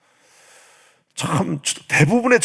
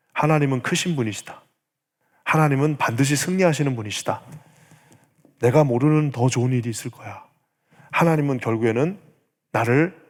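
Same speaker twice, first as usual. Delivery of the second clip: acted inner assurance, slightly lowered and settled; quiet conviction; 2 semitones lower than usual. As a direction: tell yourself with calm, steady faith. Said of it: "그 확신은 어떤 확신이냐면". (차분한 확신의 고백)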